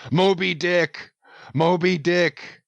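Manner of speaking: fierce exalted cry. Acted. Ahab names the whale, exalted.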